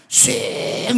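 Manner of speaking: long drawn-out swish; imitated whoosh. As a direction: mimic something flying swiftly away. Imitates spirit flying off.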